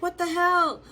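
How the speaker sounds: high-pitched, incredulous outburst; retold freak-out. Stranded group reacts to being left in the elevator, high incredulous freak-out. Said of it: "We just kinda freaked out".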